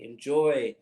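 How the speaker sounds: slow, loud, savoured enjoy; slow proud flourish. Acted. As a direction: present the glass with pride. Barkeep serves wine.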